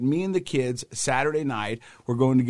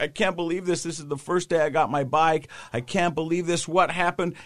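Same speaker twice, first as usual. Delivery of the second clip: mildly agitated retelling, raised pitch; freaking out; 5 semitones higher than usual. Retold or imitated. Rider retold after hitting a deer, mildly freaking out. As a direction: imitate someone in a panic, held back. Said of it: "he's freaking out".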